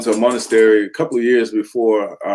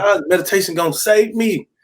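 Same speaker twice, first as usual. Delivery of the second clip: scornful doubt; 9 semitones higher than usual. Retold or imitated. His own doubting thought.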